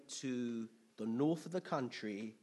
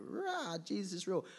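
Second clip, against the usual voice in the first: elated exclaim; 6 semitones higher than usual. Retold or imitated. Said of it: "and I'm like".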